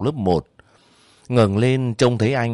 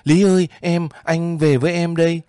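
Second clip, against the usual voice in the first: higher, louder desperate call; calling to his wife across the field; 8 semitones higher, 3 dB louder than usual. A narrator's reading. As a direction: call after her as you run. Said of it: "vừa chạy vừa gọi".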